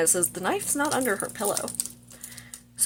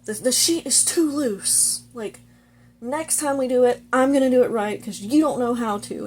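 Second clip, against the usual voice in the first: raised-pitch, emphatic telling-off; mock loud scolding; 5 semitones higher than usual. He gets close to her about the sheet, mock scolding. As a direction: imitate him getting worked up, only a little louder. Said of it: "gets really loud".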